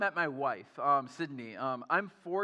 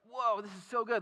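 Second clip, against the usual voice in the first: savoring wonder; 6 semitones higher than usual. Retold or imitated. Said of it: "she would savor it and be like".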